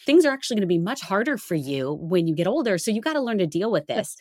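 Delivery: high, brushing-off parent voice; dismissive parent. Retold or imitated. Parent telling an upset child it's not a big deal, dismissive. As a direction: wave the child's worry away as no big deal.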